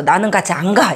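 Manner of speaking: usual speaking voice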